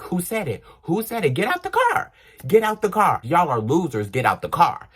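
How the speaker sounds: high, rising yelled demands at the car; angry demand. Retold or imitated. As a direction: confront the boys, half shouting. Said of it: "I'm like".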